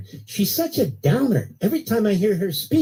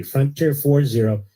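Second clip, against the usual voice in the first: slow repeated code; 6 semitones lower, slower than usual. Shown as a demonstration. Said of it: "repeats the promo code slowly".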